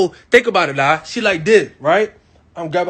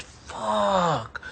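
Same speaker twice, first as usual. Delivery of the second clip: breathy groaned curse; 7 dB quieter than usual. Retold or imitated. Frustrated after being stopped.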